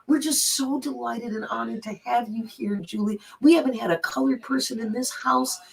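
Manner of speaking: imitating a delighted hostess, careful and sincere; gracious retold welcome, lightly acted; smiling, caring. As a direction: say it through a big smile. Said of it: "biggest smile on her face and so much care".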